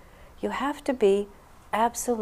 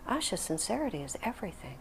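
serious; 3 semitones higher, 11 dB quieter than usual. Retold or imitated. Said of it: "very seriously".

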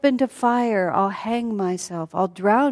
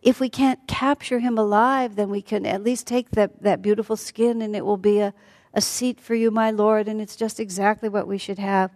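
mildly eager, higher-pitched coaxing; entranced pleading; 4 semitones higher than usual. Acted. Sita to her lord about the deer, entranced pleading. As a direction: coax sweetly with a raised pitch.

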